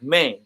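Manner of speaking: "Mang" pitched low and falling; unaccented Mang. Shown as a demonstration. Explaining the band name without the accent, unaccented. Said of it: "so no accent, it's gonna sound like".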